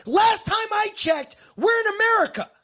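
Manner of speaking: angry shouting. Real, not acted. Husband ranting at complaining neighbors, angry shout. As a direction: shout it out in real anger.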